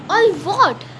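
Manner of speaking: high, puzzled query; questioning. A narrator's reading. Harry asks what he was never told, questioning. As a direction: ask it on a high falling tune. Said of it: "asked Harry".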